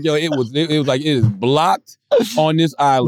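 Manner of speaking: lightly put-on Caribbean accent; a hint of a Caribbean accent; mock island accent. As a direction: imitate a local telling you it's blocked, island accent. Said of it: "They was like".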